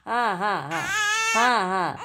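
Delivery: very high soothing coo. Real, not acted. Mother coos high to calm her fussing baby.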